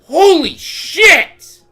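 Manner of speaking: loud, high and slow drawn-out disbelief; exasperated yell. Real, not acted. Gamer stunned by constant damage, exasperated yell. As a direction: stretch the curse out in real rage. Rage outburst while gaming.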